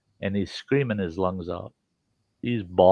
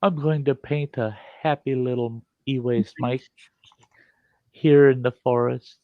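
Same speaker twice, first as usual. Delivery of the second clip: Bob Ross impression; 4 semitones higher than usual. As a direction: lull them like a TV painter.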